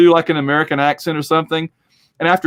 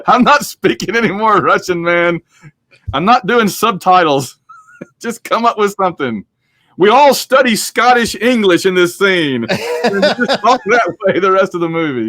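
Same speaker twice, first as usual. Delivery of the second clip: higher-pitched imitation of a stubborn star; mock refusal; 4 semitones higher than usual. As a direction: lay down the law as a joke, laughing between demands. Acts out Connery's demands, laughing between.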